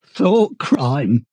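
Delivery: guilt-stricken, close to tears; almost blubbering. A narrator's reading. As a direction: say it on the edge of blubbering. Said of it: "almost blubbering".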